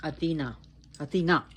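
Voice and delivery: Athena repeated as a-thee-NAH, each on its own; stress on last syllable. Shown as a demonstration. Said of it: "the emphasis on the last part".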